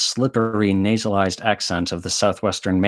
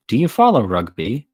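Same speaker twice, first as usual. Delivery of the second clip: pressed aloud; 3 semitones higher, 3 dB louder than usual. Acted. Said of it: "Then he pressed aloud".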